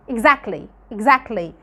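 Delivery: exactly said as "exakly" with no T; fast native exactly; t dropped. Shown as a demonstration. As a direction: glide from C to L in exactly. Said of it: "ما نطقناهاش".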